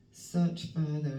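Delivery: slow and weighty, leaning on search; slow emphatic card reading. Acted. Reading the card's message aloud to viewers, slow and weighty. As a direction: read the card's words slowly and firmly. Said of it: "it says".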